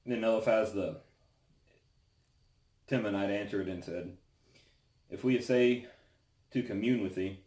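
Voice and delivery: solemn, measured Bible reading aloud; scripture reading. Acted. Reads Job chapter four aloud.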